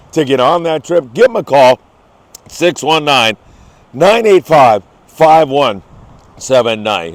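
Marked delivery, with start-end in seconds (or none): 1.1-7.1 hoarse, worn-out voice at the end. Real, not acted. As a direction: voice giving out, hoarse and strained. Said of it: "Hear my voice going down the tubes?".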